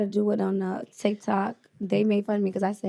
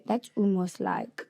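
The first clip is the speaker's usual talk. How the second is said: slow, softer British accent echo; 5 dB quieter, slower than usual. Shown as a demonstration. Guest parroting the host, slow British accent. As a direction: repeat slowly in a British accent. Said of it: "Try it, try it".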